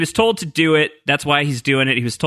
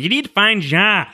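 Ana Lucia; 7 semitones higher than usual. Retold or imitated. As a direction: drag the words out in a mock apparition voice. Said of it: "that was how she says".

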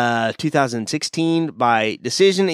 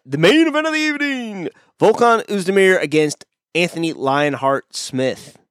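big ring announcer intro, pitched up; 3 semitones higher than usual. Pretend. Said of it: "You sounded a little bit like a ring announcer there".

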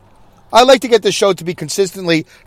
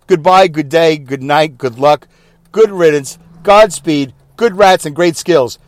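drawn-out sign-off of eight farewells; mock announcer sign-off; slower than usual. Shown as a demonstration. Host mocking announcers' goodbyes, drawn-out farewell. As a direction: parody a newsreader's goodbye. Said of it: "I'm making fun of the whole goodbye thing".

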